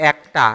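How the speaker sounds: "একটা" as ækta; open e pronunciation. Shown as a demonstration. Teacher gives an example of the shifted vowel, "একটা" as ækta. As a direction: say "একটা" with a wide æ. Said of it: "এ উচ্চারিত হচ্ছে".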